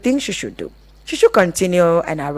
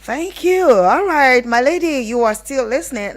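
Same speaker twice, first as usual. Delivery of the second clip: bright excited sign-off; 7 semitones higher, 3 dB louder than usual. Real, not acted. Radio host thanking a caller, excited and pitched high. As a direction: pitch jumps much higher, a little louder.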